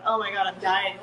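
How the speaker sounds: giggling through it; half-laughing, amused at herself. Retold or imitated. Mother alone, cracking up at her own experiment, laughing. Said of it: "I'm like".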